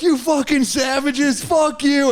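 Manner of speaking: high, drawn-out comic rage; hammed-up furious outburst; retold meltdown. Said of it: "I can't have public meltdowns anymore".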